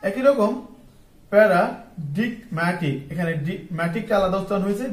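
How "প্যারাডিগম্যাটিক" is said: প্যারাডিগম্যাটিক broken slowly into "para-dig-matic"; separated syllables. Shown as a demonstration. Teacher showing the split syllables, প্যারাডিগম্যাটিক slow with audible g. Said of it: "ডিকটা আলাদা উচ্চারণ হয়ে".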